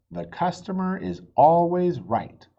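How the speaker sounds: loud proclamation; reading the sign out loud to Pete. A narrator's reading. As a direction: announce it like a sign. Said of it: "read the sign out loud".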